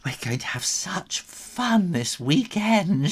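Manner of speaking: high, loud thrilled auntie; squealing with excitement; excited aunt. A narrator's reading. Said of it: "Aunt Loopy got all excited".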